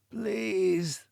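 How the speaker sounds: soft, trembling please; a terrified captive begging for his life; quivering plea. Acted. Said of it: "his lips quivering".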